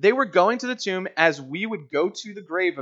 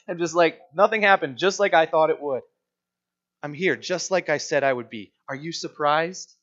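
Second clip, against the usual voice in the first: playful teasing. Retold or imitated. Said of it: "having a little bit of fun with them".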